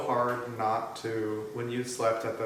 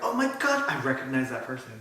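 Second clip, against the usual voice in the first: mock excited recognition; faster than usual. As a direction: gush like spotting a celebrity. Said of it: "and you're like".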